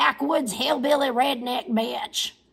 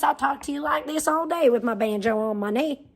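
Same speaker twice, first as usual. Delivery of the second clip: softer, mock-seductive Appalachian hillbilly voice; mock sexy voice; 4 dB quieter than usual. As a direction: purr it as a parody of a sultry Appalachian hillbilly. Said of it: "You wanna hear my sexy voice?".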